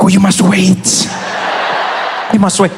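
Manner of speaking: mock stern cabin neighbour shouting; stern scolding. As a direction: scold him to sit back down. Passengers scolding him.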